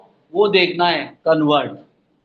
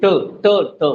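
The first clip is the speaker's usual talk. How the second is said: ट, ट, ट as light separate taps; weak final sound. Shown as a demonstration. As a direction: let each ट fall away unforced. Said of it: "धीरे हो गए".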